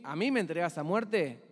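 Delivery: understated human outrage at betrayal; a touch of indignant disbelief; mild indignation. Retold or imitated. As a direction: protest it, without quite shouting. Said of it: "lo mínimo que hago es gritarte".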